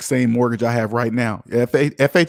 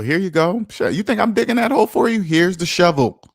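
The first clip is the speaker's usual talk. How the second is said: mock boss; 4 semitones higher than usual. Voices boss handing slaves shovel.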